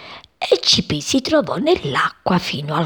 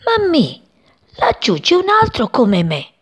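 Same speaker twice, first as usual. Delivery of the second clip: excited call; 10 semitones higher than usual. Acted. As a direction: shout the discovery to mum. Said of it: "gridò". (grido acuto ed eccitato)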